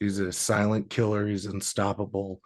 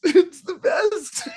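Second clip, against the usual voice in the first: laughing; 3 dB louder, slower than usual. Real, not acted. Host breaks up laughing.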